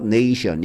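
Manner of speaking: 네이션 with A said as "ay"; long A pronunciation. Shown as a demonstration. Teacher contrasting 네이션 for students, long A demo. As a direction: glide "ne-i" at the start of 네이션. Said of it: "A로 발음됐죠".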